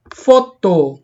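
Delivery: foto with a firm FO and falling -to; stress on first syllable. Shown as a demonstration. Teacher repeating foto before classifying it, stressed FO. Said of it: "es una palabra grave".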